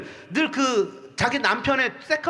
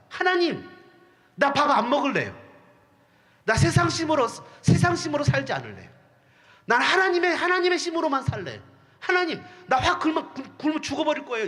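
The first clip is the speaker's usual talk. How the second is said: a hint of a stubborn child vowing to starve; lightly voiced believer making a sulky vow; stubborn pledge to God; 2 semitones higher than usual. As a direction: pout it at God, half-joking.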